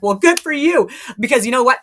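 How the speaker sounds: high, loud mock brush-off; sarcastic retort. Dismissing the general who said he's there, sarcastic. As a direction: toss it off with sarcasm. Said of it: "And I'm like".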